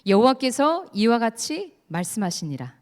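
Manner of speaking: measured, slightly slow reading of a verse; solo scripture reading. Shown as a demonstration. Preacher reading a verse to the audience, slow and measured. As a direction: read the verse alone, deliberately. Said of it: "제가 읽어드릴게요".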